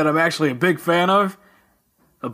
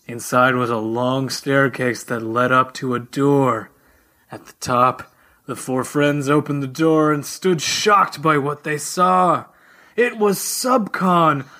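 announcer voice. Acted. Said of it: "put on my announcer voice".

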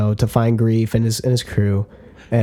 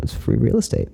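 meme quote. Retold or imitated. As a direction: drop the meme like a smug salesman. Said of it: "my favorite meme".

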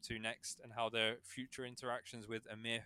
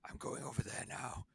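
gravelly superhero growl, higher than usual talk; Christian Bale Batman; 4 semitones higher than usual. Shown as a demonstration. Showing co-hosts his current character's voice, gravelly Batman impression. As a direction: put on that gravelly vigilante voice. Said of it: "has the Christian Bale Batman voice".

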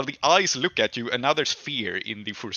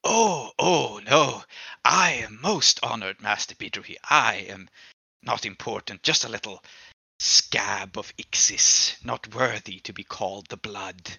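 grovel with oily humility; grovelling demon. Acted.

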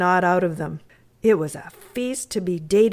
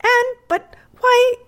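put-on high, slow puzzled question from a young girl; girl surprised to find her guest missing; 5 dB louder than usual. A narrator's reading. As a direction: let her surprise draw the words out, much higher.

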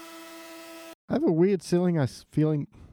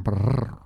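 rolled growling purr into the mic; growly purr; 4 semitones lower than usual. Acted. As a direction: purr like a cat into the headphones. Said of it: "your mouth is in my ears".

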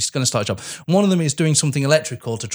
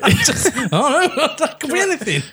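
cracking up while talking, high and breathy with laughter; laughing; 10 semitones higher, slower than usual. Real, not acted. Co-host laughing helplessly at the absurd injection joke. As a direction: barely get the words out through laughter. Guessing what was injected.

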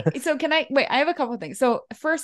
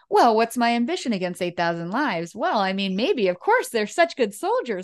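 mock general. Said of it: "General Moreau is like".

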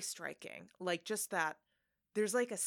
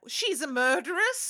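loud, high, drawn-out exclamation; mock shock; 9 semitones higher, 11 dB louder than usual. Imitating audience shocked by beloved star, mock outrage. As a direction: blurt it out as a scandalized revelation. Acted shock after gushing over actress.

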